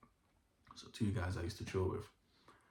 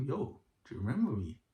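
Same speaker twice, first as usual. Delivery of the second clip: imitating his smiling greeting, pitched higher; smiling menace; 5 semitones higher than usual. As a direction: say it through a smile, higher, mimicking him. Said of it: "he did a smile like that".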